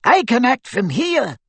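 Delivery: high little wizard voice; eager squeak; squeaky voice. A narrator's reading. Flitwick's voice.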